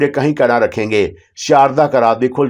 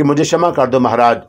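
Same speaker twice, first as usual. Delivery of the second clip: ordinary delivery, nothing marked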